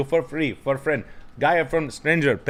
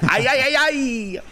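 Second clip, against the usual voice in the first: drawn-out ay ay ay; 10 semitones higher than usual. Acted. Drawn-out mock wail.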